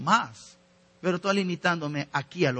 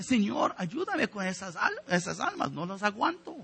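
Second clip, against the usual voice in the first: a mild, weary complaint raised higher; complaining prayer; 5 semitones higher than usual. Retold or imitated. Pastor complaining to the Lord about members, mock weary complaint. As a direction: voice a tired pastor grumbling to the Lord, lightly. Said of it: "Y el pastor tiene que orar, quejándose".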